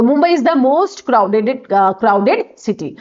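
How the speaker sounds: slow, word by word; slow dictation. Shown as a demonstration. Teacher dictating example sentence to class, slow and deliberate. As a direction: spell out the example sentence slowly for students. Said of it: "तो the आ गया".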